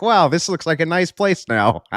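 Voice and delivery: sarcastic wow, drawn out high; mock admiration. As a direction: play it mock impressed, slow and high. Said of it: "and you're like".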